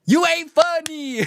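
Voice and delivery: repeating the clip line through laughter; laughing imitation. Mocking streamer quoting the clip, laughing. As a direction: quote her, half laughing. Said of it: "just dropping the N-word".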